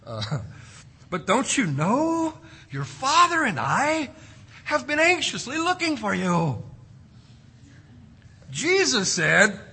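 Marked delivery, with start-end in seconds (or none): 1.2-6.6 tender motherly reproach. Acted. Preacher re-voicing Mary as a mother would, gently and tenderly. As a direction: plead gently, drawing it out like a worried mother. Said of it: "much more gently and tenderly, like a mother would".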